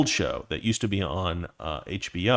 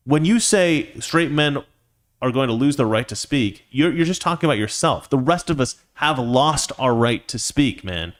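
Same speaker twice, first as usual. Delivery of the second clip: ordinary talk, nothing marked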